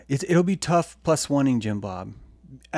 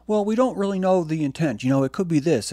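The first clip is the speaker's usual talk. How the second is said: higher, louder, prim hedging imitation; mock Spectral voice; 7 semitones higher, 5 dB louder than usual. Imitating a cautious friend to the audience, higher and louder. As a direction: mimic her careful hedging, pitched up. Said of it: "She's like".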